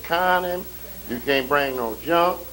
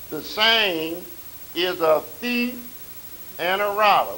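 scripture reading; 3 dB louder than usual. Acted. Reads scripture in preaching cadence.

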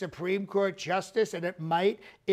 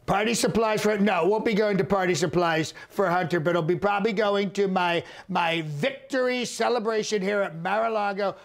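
loud insistence; 5 dB louder than usual. Acted. Insisting in answer to question.

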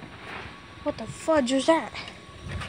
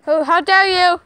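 mock indignation; 4 semitones higher, 9 dB louder than usual. Mock outrage at someone.

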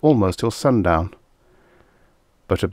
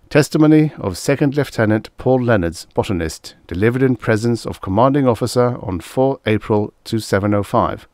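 slightly raised official announcement; formal dictation; 3 semitones higher than usual. A narrator's reading. Officer dictating a testimony heading into the autotype, formal.

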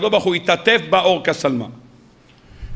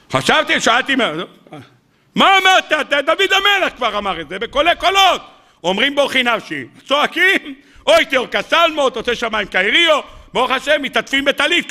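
higher, mock-astonished outburst; incredulous retort; 6 semitones higher than usual. Rabbi scoffing at the secret answer, higher and incredulous. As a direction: scoff that this is old news.

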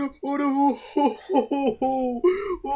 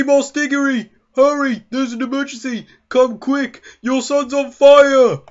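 urgent shout; 5 dB louder than usual. Acted. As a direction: yell for help across the yard. Alerting father of emergency.

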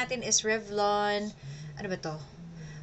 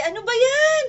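high startled exclaim; shocked, shrill and loud; surprised; 10 dB louder than usual. Real, not acted. Interrupted by daddy.

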